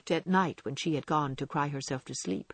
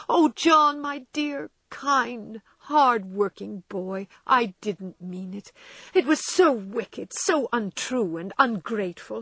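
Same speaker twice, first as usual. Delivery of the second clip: tearful pleading; 4 semitones higher, slower than usual. A narrator's reading. Meg begging her husband's forgiveness, tearful and high. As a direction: cry out her remorse, clinging to him. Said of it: "crying with repentant tears".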